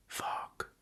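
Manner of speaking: awed whispered curse; whispering. Real, not acted. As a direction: breathe it out in a whisper. Awed at the chart.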